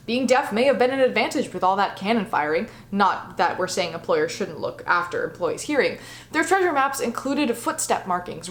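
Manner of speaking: a light, hammed-up pirate accent, dramatic reading; terrible pirate accent. Vlogger reading an article aloud in a light mock pirate accent. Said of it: "I also hope you enjoyed my terrible pirate accent".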